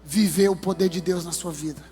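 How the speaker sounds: preaching at full force. Acted. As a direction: preach it out to the whole church. Sermon climax at full force.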